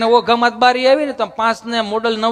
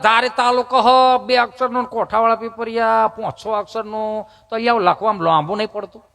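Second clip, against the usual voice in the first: imitated Mehsana man; 3 semitones higher than usual. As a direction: mimic a nosy Mehsana villager, stretching the words. Mimics a Mehsana man questioning him.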